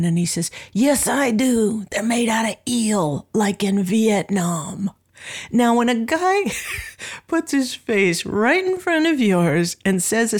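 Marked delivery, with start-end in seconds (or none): 0.7-4.9 lightly imitated, drawn-out insistence; slow, deliberate mock confrontation; Miles Davis. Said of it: "Miles spins around, puts his face right in front of mine".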